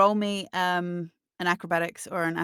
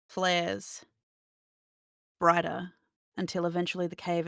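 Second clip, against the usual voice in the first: game master narration. Acted. Game master describes fire dying into darkness, measured narration. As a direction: narrate deliberately, letting each phrase hang.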